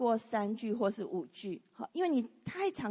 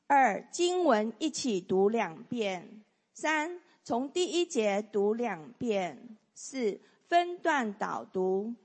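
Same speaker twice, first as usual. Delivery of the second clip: slow, deliberate reading of the numbered steps; group reading; slower than usual. Shown as a demonstration. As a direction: read each step slowly for all to follow. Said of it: "我们可以一起来念一次哈".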